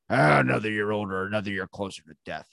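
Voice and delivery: lightly voiced grumbling old man; grumpy grandpa. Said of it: "My grandpa answers it like that".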